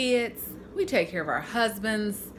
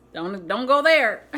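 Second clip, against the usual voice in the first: laughing warning; 4 dB louder, slower than usual. Real, not acted. Joking warning about baked goods.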